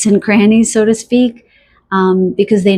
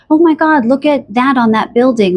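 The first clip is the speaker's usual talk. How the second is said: higher, delighted gasp of wonder; amazed exclaiming; 5 semitones higher than usual. Retold or imitated. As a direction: point at the building in sudden awe. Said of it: "you'll say".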